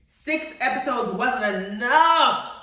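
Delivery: slow, emphatic complaint; drawn-out lament. Real, not acted. Viewer laments the short season, drawn-out protest. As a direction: stretch out "enough" as a wail of protest. Complains, then repeats it quickly.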